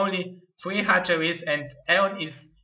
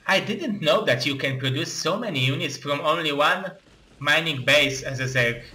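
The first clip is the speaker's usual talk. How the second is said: ordinary talk, nothing marked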